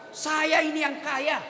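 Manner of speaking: a hint of a boastful rich man; mock arrogant husband. Preacher mimicking an egotistic husband, mild mock arrogance. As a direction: lightly voice the bragging husband. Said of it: "itu setan yang bicara".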